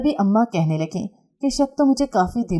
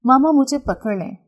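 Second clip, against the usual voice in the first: put-on higher, louder little child calling out; child's plea; 7 semitones higher, 4 dB louder than usual. Toddler calling to his mother to be held, high child voice. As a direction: beg like a small child to be picked up.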